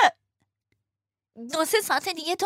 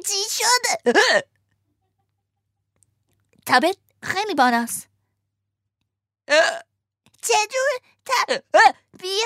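sighing marmot; 2 semitones lower than usual. Acted. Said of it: "آهی کشید و گفت".

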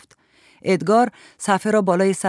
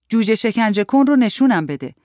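put-on higher, louder child's demand; little boy; 4 semitones higher, 5 dB louder than usual. A narrator's reading. Boy down from the tree asking to see, demanding. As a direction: demand it like an eager kid.

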